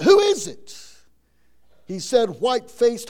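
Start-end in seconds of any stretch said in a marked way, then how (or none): 0.0-0.7 high, loud call down from an upstairs window. Acted. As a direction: shout down to the stranger at the door. Farmer calls from window.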